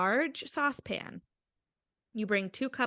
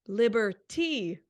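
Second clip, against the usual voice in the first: drawn-out reveal; slower than usual. Acted. Reveals the punning cocktail name.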